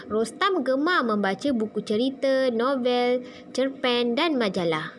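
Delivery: measured list reading, parting "buku cerita", "novel" and "cerpen" at each comma; list intonation. Shown as a demonstration. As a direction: lilt on "buku cerita", "novel", "cerpen", settling on "dan majalah". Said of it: "dia ada intonasi dia".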